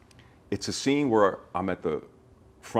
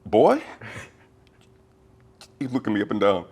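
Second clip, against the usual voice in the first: imitating incredulous Jamie; 4 semitones higher, 7 dB louder than usual. Jamie eyes the actor up and down, loud incredulous. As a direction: bark it like he can't believe his ears. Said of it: "And Jamie went".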